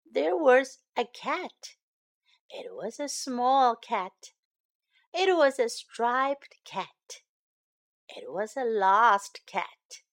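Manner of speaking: gentle storybook reading; singsong storytime narration; reading to children. A narrator's reading. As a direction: read it like a bedtime picture book. Reading picture book aloud.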